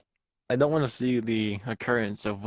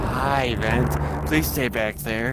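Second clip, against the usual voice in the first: scared pleading; 2 semitones higher, 4 dB louder, much slower than usual. Real, not acted. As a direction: beg the monster to stay away. Pleading with monster in vent.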